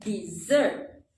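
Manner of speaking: DESSERT drawn out, di then long ZERT; stress on second syllable. Shown as a demonstration. Teacher showing how to do it, dessert stressed on ZERT. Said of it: "You can do like this".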